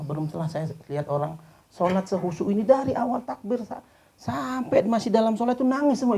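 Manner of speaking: very high and loud, near tears; emotional climax. A narrator's reading. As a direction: rise to the peak of the story. Climax of the story, preacher moved. (puncak cerita dengan suara tinggi dan haru)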